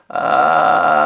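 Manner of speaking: low, loud voiced creaky drive; gritty drive with full voice; vocal drive. Shown as a demonstration. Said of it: "já é um drive".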